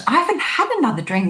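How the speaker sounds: high, fast protest of innocence; indignant disbelief. Retold or imitated. Retelling her protest to the waiter, in indignant disbelief. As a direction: jump up in pitch, insisting you didn't order it. Waiter demands payment for drink.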